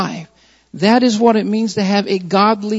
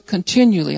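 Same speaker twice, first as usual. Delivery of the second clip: "continually" set apart as a key word; emphasis on "continually". Real, not acted. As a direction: lean on "continually". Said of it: "few words I want to emphasize".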